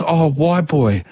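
laughing through a friendly telling-off; laughing scold. Retold or imitated. Barman laughing as he tells the tourist to stop, amused scolding. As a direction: chuckle while telling him off. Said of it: "he starts laughing and he goes".

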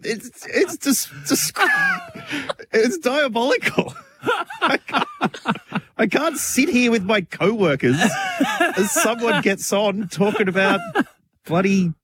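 high, breaking into laughter while protesting; laughing embarrassment. Real, not acted. Cohost can't sit through sex talk, laughing high protest.

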